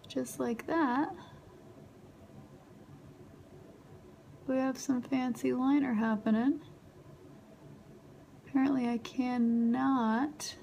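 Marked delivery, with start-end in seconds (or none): 0.1-6.6 talking through clenched teeth; words squeezed past a tight jaw; through gritted teeth. Real, not acted. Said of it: "like I'm talking through gritted teeth".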